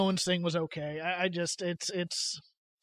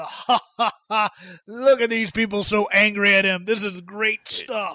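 chuckling Vince; 3 dB louder than usual. Retold or imitated. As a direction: gloat while chuckling. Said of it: "Vince is just chuckling".

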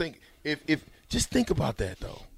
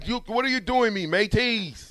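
higher mock pirate-Irish; 5 semitones higher than usual. Host hunting for the accent, pirate-like Irish. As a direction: attempt Irish, come out pirate. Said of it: "still closer to a pirate".

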